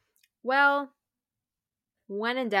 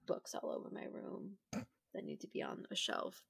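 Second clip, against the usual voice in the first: whispering; 10 dB quieter than usual. Real, not acted. Whispered aside.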